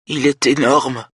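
put-on slow, high child's voice near crying; close to tears. A narrator's reading. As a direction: drag it out high, about to cry. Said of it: "elle se met à pleurer".

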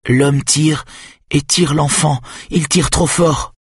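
put-on a girl crying out at what she sees; frightened. A narrator's reading. Girl describes child being pulled.

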